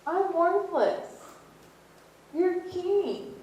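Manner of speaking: high, loud, pleading refusal; aghast Peter. Retold or imitated. Peter refusing to let the king wash his feet, high and loud. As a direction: refuse in shocked disbelief, voice climbing.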